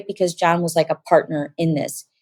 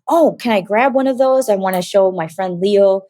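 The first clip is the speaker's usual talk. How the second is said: eager ask; 2 semitones higher than usual. Retold or imitated. Excited ask after date.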